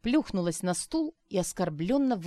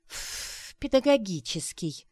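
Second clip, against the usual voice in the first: scornful snort then mocking word; contemptuous scoff; 2 semitones higher, slower than usual. A narrator's reading. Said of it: "фыркнула Арина".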